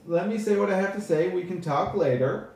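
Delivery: stagey elf putting off an interrupter; high elf speaker. Acted. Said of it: "Devlo looks at you and he says".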